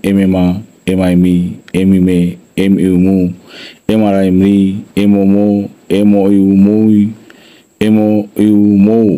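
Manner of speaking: level-toned syllable recitation, evenly spaced; spelling drill. Shown as a demonstration. Teacher showing the learner how to read M syllables, steady spelling drill. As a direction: recite each spelling on one steady note. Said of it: "এইভাবে পড়তে হবে তোমাকে".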